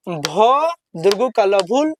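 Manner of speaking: भ दुर्गु का ल भूल drawn out very slowly; slow spelling. Shown as a demonstration. Teacher to pupils, slow spelled-out reading. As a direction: stretch each syllable of भूल. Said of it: "कैसे पढ़ेंगे?".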